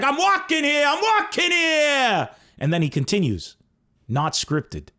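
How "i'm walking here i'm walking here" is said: high, slow shouted impression; Dustin Hoffman shout. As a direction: yell it at the car, stretched and high. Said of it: "he's like".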